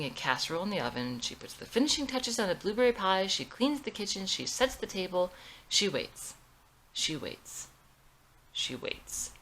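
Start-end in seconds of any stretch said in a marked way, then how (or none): 5.7-9.3 fading to whisper. A narrator's reading. Repeated waiting, alone.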